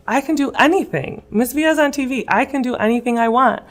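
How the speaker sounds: voicing a student's sudden belief in herself; inspired. Student's inspired inner thought.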